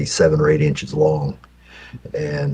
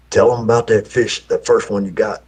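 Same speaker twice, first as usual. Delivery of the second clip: grandpa prompting; 6 semitones higher, 3 dB louder than usual. Retold or imitated. Grandpa at the bar.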